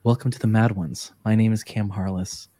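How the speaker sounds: measured, hushed public-radio intro; NPR voice. Shown as a demonstration. Host parodying his own scripted show intro, NPR voice. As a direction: slip into a composed NPR host read. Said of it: "not to go into N P R voice".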